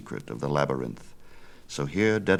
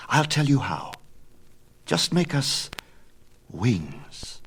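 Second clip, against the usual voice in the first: put-on higher, bold young son; eager young Icarus; 8 semitones higher, slower than usual. Son argues with his father, higher and bold. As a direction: push back, higher and bold.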